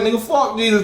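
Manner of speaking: mock defiant shout. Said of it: "And if you're like".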